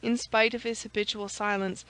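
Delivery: ordinary delivery, nothing marked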